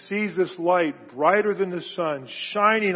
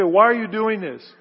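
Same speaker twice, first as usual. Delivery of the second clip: louder, scolding challenge; harsh demand; 4 semitones higher, 7 dB louder than usual. Retold or imitated. The voice Jesus did not use on Saul, harsh and loud. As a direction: demand it like an angry accuser. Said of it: "He didn't say".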